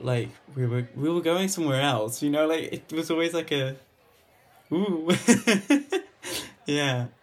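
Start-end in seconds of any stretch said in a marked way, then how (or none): 5.1-6.0 high bright laugh, much louder; burst of laughter. Real, not acted. Theo laughs remembering trips away from London. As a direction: laugh out at the memory.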